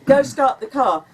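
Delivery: loud firm command; talking loudly. Retold or imitated. Husband telling wife to start the car, loud urgent order. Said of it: "He was talking loudly".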